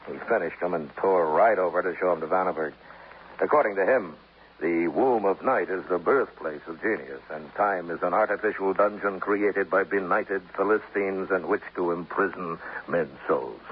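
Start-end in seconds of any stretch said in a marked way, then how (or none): 4.6-13.6 slow, lofty recitation of the poet's words; mock poetic quote. Lieutenant mocking the screwball poet's words to Dollar, slow mock-grand recitation. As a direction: ham up the bohemian's grand phrasing slowly.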